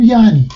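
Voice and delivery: یعنی with no glottal stop, a long first vowel; everyday pronunciation. Shown as a demonstration. Linguist showing how Persians really say the word, everyday pronunciation. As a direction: say یعنی as a drawn-out yaani.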